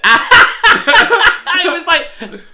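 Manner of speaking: high loud laugh dragging the words; helpless laugh. Real, not acted. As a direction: let the laugh swallow it. Laughing mid story.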